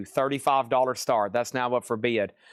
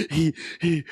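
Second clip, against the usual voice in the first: mock hyperventilating. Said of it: "hyperventilating, going".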